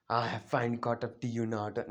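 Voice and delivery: low, softened rival's taunt; a hint of a cool rival, spoken low; lightly voiced Sasuke. Sasuke to Naruto on catching up, lightly acted rival.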